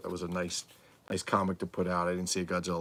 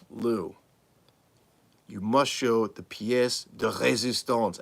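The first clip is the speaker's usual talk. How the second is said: slow imitated accent, pitched higher; Darth Silicone's accent; 4 semitones higher, 4 dB louder, slower than usual. Vlogger quoting a friend urging him to show it, in imitated accent. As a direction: emulate his accent, stretching out the grand phrase. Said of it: "And he does it in that accent. I'm trying to emulate him".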